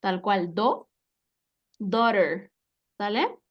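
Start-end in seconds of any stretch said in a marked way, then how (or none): 0.5-0.9 "do" alone, cleanly separated; first-syllable demo. Shown as a demonstration. Teacher repeating the first sound, do said on its own. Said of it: "Se va a pronunciar". 1.8-2.5 daughter as DO-rer with tapped middle; pronunciation demo. Shown as a demonstration. Teacher easing a difficult word, daughter said distinctly as DO-rer. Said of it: "Se va a pronunciar".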